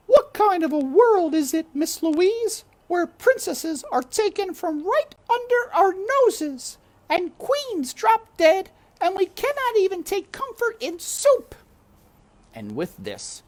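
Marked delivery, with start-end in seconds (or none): 0.1-11.6 high loud cook's lament; shouting cook. A narrator's reading. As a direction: cry it out like a frantic old cook. Cook laments before crying.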